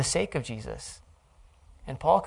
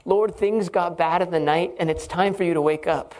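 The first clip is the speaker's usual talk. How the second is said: louder, higher insistent plea; urgent prayer; 3 semitones higher, 4 dB louder than usual. Acted. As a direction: press God to wake up. Voicing prayer to God.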